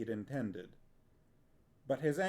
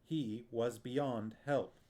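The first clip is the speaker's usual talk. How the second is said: slow, cold, brutal finality; a hint of icy brutality; slower than usual. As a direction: state it without pity. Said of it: "Her voice was cold, even brutal".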